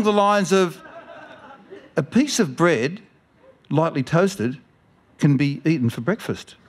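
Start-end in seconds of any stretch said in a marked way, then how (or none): 2.0-6.6 imitating the old woman. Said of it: "the older woman's voice".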